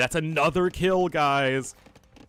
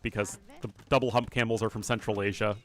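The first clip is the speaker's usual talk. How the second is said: ordinary talk, nothing marked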